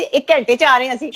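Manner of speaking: put-on a light Punjabi accent with a laugh; playful Punjabi accent. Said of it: "Punjabi में कहते हैं ना". (हल्का पंजाबी लहजा, हँसते हुए)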